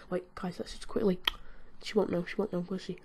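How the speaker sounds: whispered aside to viewers; sneaky whisper. Real, not acted. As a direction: whisper like you're up to mischief. Sneakily taking a friend's water.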